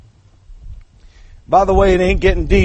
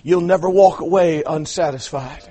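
ordinary talk

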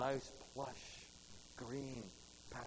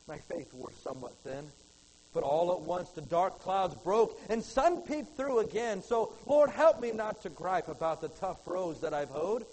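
poem recitation; 4 dB louder than usual. Acted. Preacher reciting a poem to his congregation, heartfelt recitation. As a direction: read it as a heartfelt poem, lifting the lines.

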